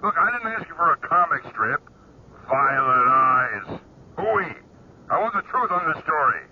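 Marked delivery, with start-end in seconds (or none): 2.5-4.6 scoffing. Acted. Editor scoffs at her story.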